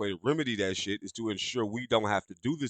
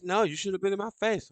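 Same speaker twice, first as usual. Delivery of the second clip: higher-pitched mock defiant retort; defiant woman; 9 semitones higher than usual. Woman refusing the man who took her phone, mock defiant. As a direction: play her indignant refusal in a raised pitch.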